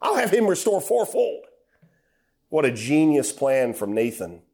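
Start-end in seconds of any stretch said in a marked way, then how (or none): 0.0-1.5 high-pitched demand for the culprit's name; a raised, angry voice from the preacher as David; furious king. Acted. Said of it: "David is furious".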